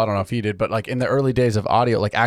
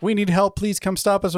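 high, clipped telegram-style plea; 8 semitones higher than usual. Retold or imitated. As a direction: read it like an urgent telegram. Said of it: "she goes in to, like, send the telegram".

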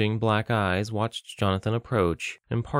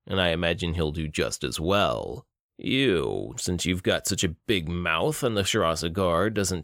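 menacing villain; 3 semitones lower than usual. Acted. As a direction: savor each taunt like a cruel captor. Bruto describes execution.

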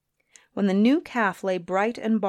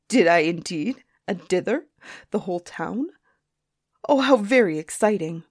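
questions lifting at the end, mildly thrilled; delighted surprise. Acted. Griffin hears whole town was upset, delighted. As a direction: savour the news, then exclaim. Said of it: "cried the griffin".

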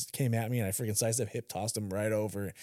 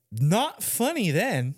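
slow, high words through laughter; recalling spraying his wife, laughing; 9 semitones higher, 4 dB louder, much slower than usual. Real, not acted. Laughing recalling car wash.

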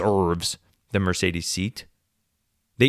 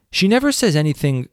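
"never" pushed higher and louder; stress on never; 4 semitones higher, 3 dB louder than usual. Real, not acted. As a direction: lean hard on "never" in exasperation. Third repeat, building emphasis.

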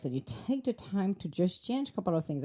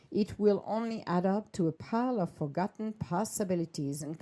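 horoscope reading; 3 dB quieter than usual. Acted. Reads a horoscope aloud.

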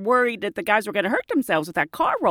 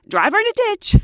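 laughing repeat; 12 semitones higher, 6 dB louder than usual. Real, not acted. Laughing replay of clip title.

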